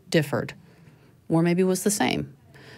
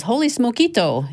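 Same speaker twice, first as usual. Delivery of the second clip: higher, louder storybook cry; excited exclamation; 7 semitones higher, 4 dB louder than usual. A narrator's reading. Reading Skippy John Jones's exclamation to listeners, excited. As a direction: exclaim it like a delighted cartoon cat. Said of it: "exclaimed Skippy John Jones".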